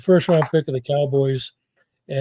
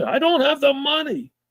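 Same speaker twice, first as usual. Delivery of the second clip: furious, high, angry screaming outburst; 11 semitones higher than usual. Retelling a phone call about bonuses, acting out the man on the line: retelling a scream. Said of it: "and he's screaming".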